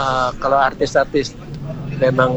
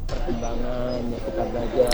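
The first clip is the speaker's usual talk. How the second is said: trailing off, barely reaching the mic; fading voice; 8 dB quieter than usual. Real, not acted. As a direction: voice fading out, much softer. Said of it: "Suaranya makin hilang".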